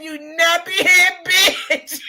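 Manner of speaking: slow, chuckling quote; quote through laughter. Retold or imitated. Retelling the insult a second time, chuckling to viewers. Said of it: "She said".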